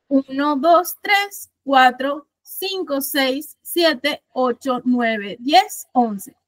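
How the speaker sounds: each syllable counted out one by one, slow; counting syllables slowly. Shown as a demonstration. Teacher counts the verse's syllables for the class, slowly. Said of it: "si yo cuento de nuevo".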